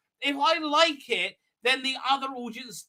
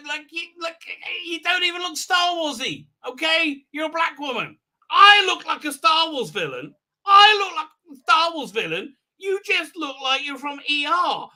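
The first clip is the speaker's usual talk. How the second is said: high, incredulous tirade; hammed-up indignant scolding; mock exasperated rant; 4 semitones higher, 3 dB louder than usual. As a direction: tell them off in a high, worked-up voice. Ranting at the character as if present.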